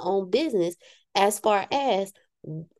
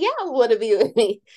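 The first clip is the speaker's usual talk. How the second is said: mock Phil; 4 semitones higher, 3 dB louder, faster than usual. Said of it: "Phil over there shaking his head".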